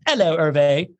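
"Hello" said as "'ello"; dropped H. Shown as a demonstration. Host greeting Hervé on the roll call, "Hello" with no H. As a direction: drop the H so "Hello" starts on the vowel. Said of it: "not gonna pronounce a single H".

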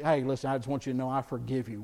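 quick, offhand forgiveness announced to their face; wrong way to forgive. Shown as a demonstration. Preacher showing the wrong way to forgive someone, quick and offhand. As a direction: rush out a casual, showy I forgive you. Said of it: "don't go up to somebody that's hurt you".

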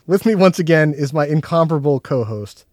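upbeat podcast host intro; show host. Acted. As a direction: welcome everyone like a showman.

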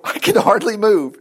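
put-on slow, drawn-out complaint of a weighed-down boy; boy weighed down by armor. Young David strapped into Saul's huge armor, struggling. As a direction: drag it out as if loaded with armor.

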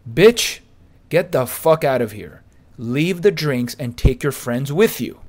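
loud insult. Retold or imitated. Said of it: "says these words exactly".

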